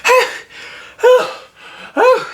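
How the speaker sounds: very high, breathless squeaky piglet. Acted. Piglet panting to Christopher Robin, very high squeak. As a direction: gasp it out like a terrified little pig. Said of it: "doing that Piglet voice screaming".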